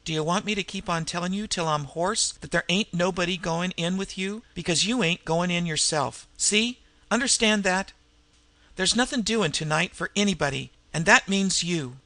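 Skulker berates Pinkie, getting shriller; angry rant. Acted. Skulker berating Pinkie in a rising angry rant.

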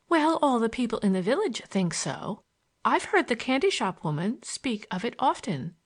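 a hint of a girl's high lilt; gently insistent young girl; insistent schoolgirl. Voices the schoolgirl in dialogue.

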